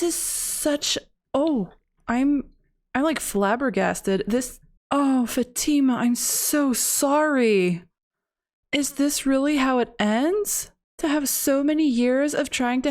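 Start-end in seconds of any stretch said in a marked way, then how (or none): 4.9-7.8 sad. Real, not acted. Character dies.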